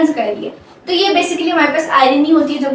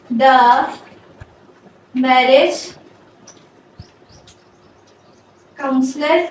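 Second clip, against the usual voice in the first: word by word with long pauses; halting, isolated words; slow dictation; much slower than usual. Shown as a demonstration. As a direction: dictate it slowly as you write. Dictating example while writing it out.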